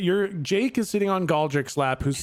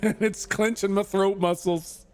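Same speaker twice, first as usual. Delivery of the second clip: strained, pinched NPC voice, a bit higher; mucked-up voice; 4 semitones higher than usual. Acted. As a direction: squeeze the words through a clenched throat. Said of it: "this voice is getting real mucked up".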